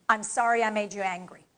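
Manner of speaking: gently apologetic; a little sorry. Shown as a demonstration. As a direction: demonstrate a sincere, understated apology. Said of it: "you need to sound and look a little sorry".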